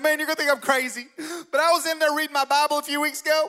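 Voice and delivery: high-pitched, excitable redneck caricature; over-the-top redneck. Retold or imitated. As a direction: tell it like a redneck times a hundred. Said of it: "redneck human being".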